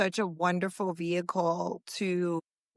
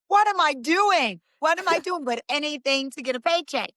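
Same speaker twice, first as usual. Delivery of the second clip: incredulous; 7 semitones higher than usual. Retold or imitated. Reliving absurd audition, pitch up.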